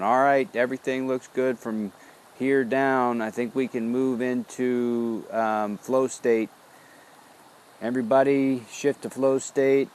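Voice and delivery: a cheerful captain calling the crew to flow state; commanding neocortex voice. Retold or imitated. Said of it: "my neocortex going".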